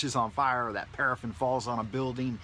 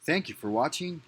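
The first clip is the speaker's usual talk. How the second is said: altered voice; 7 dB louder than usual. Acted. Outro clip in altered voice.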